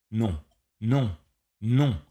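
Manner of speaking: a rising cry of no; inner cry. A narrator's reading. The host screams no inside his own mind.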